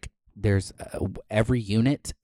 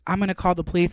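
higher mock voice of the neighbor; 8 semitones higher, much faster than usual. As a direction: parody her threat. Mimicking neighbor's threat.

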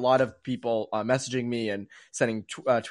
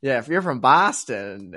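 put-on slow, unconvincing Boston accent; drawn-out, badly faked Boston accent; fake Boston accent; slower than usual. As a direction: imitate someone faking a Boston accent. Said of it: "he just clearly doesn't have an accent".

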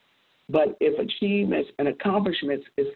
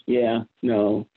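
put-on grunting teen; 5 semitones lower than usual. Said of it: "he answered with grunts".

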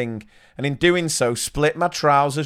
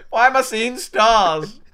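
dazed and dizzy; 8 semitones higher, 3 dB louder than usual. Retold or imitated. Dizzy bleeding teacher voiced.

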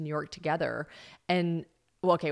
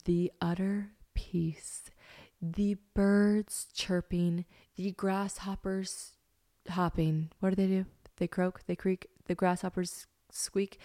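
hushed awe; 2 semitones higher, slower than usual. Shown as a demonstration. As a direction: stretch it out slowly, almost whispering. Describing hushed countryside peace.

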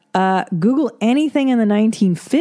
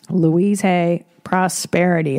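slow, spelled out; slower than usual. Shown as a demonstration. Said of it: "look up Louise Hay".

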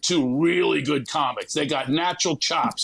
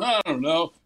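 giggling Kim. Retold or imitated. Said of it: "Kim's going".

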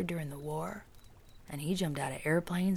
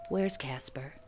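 hollow voice; 2 semitones lower than usual. Acted. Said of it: "said with a hollow voice".

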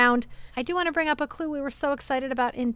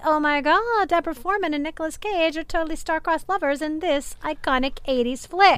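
lightly imitated Valley Girl voice, higher pitch; mild Valley Girl accent; 4 semitones higher than usual. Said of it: "Ken doing his best Valley Girl accent".

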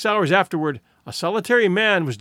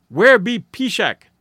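loud, slow, sharp demand; old woman snapping out a question; sharp query; 4 semitones higher, 6 dB louder, slower than usual. A narrator's reading. Old squaw demanding where Pishak is, sharply. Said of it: "an old squaw queried sharply".

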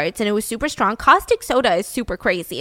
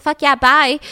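eager yes; 4 semitones higher, 7 dB louder than usual. Retold or imitated. Festima eagerly agrees.

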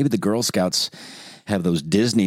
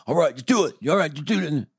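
offhand parent; 8 semitones higher than usual. Retold or imitated. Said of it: "The second kid's like".

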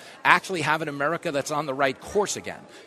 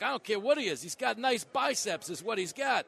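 Biden impression; 6 semitones higher than usual. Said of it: "He's like".

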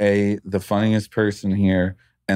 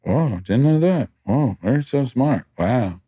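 higher, slow polite gushing; fake polite interest; 4 semitones higher, slower than usual. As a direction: humor them with a polite smile. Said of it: "politely smiling and going".

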